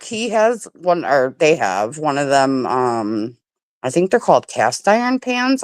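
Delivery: talking with a mouth full. Real, not acted. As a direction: chew and talk through a mouthful of grilled cheese. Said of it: "I'm so sorry to talk with my mouth full".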